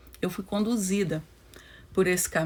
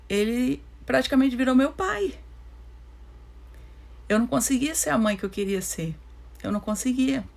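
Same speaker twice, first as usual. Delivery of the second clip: holding back sobs. Real, not acted. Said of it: "eu tô emocionada".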